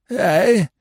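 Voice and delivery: high, absent query. A narrator's reading. Lord absorbed in his book, absently. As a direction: pipe up without really listening. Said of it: "responded his lordship absently".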